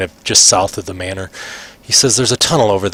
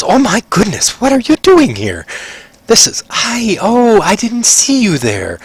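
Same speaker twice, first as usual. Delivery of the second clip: high-pitched startled halfling mother; a flustered, caught-off-guard exclamation in a high voice; 11 semitones higher, slower than usual. Acted. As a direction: jump at an unexpected visitor, voice pitched way up. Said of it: "she kinda startles and she goes".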